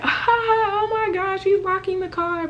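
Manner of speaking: high, slowed, laughing oh my gosh; amused disbelief. Retold or imitated. Watching her son lock the car, high laughing disbelief. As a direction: say it through giggles. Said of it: "I'm like".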